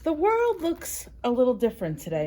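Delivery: lightly voiced mouse. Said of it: "Mouse said".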